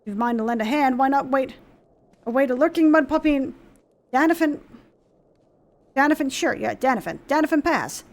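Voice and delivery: a hint of a plain-spoken captain giving advice; lightly voiced gruff soldier. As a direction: speak like an old soldier sharing a tip. Reads NPC dialogue aloud.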